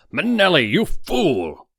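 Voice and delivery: high, loud outburst; Weber's shout of betrayal; furious cry. A narrator's reading. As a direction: hurl it at him. Weber cries out.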